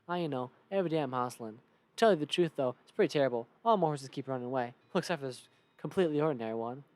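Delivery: loud Western hustler; horse seller. Acted. Horse seller laments runaway horses, Western character voice. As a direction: grumble as a Western merchant.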